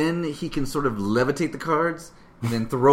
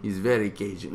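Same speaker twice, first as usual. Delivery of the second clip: bad Cajun accent; 5 semitones lower, 3 dB quieter than usual. Shown as a demonstration. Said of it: "that was a terrible Cajun accent".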